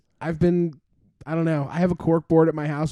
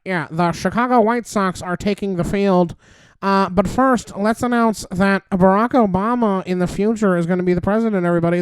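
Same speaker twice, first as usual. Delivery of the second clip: lightly voiced old-timey ballpark announcer; a hint of a vintage radio host; 1950s announcer voice; 3 semitones higher than usual. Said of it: "like, in a nineteen fifties, like, announcer voice".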